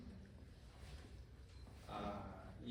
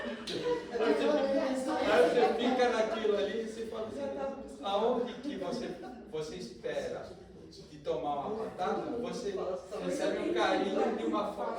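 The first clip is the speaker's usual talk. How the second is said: laughing through words; 8 semitones higher, 10 dB louder than usual. Real, not acted. Still laughing after the punchline.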